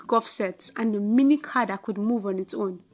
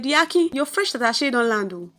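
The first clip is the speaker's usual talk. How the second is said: pepper seller calling. Acted. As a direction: shout it across the junction.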